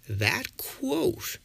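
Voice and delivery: breathy dramatic whisper. Acted. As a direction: whisper it like a secret. Dramatic reveal after countdown.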